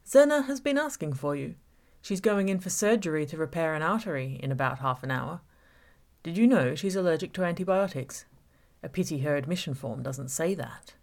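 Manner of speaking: menacing villain toying with Gabby; villain Sean taunting. Acted. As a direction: savour every word of the trap. Villain Sean's taunting speech.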